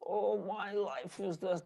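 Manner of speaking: slow, soft bimbo drawl; bimbo girl imitation. Coach mimicking bimbo girls for his students, slow mock-ditzy drawl. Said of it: "bimbo girls are like".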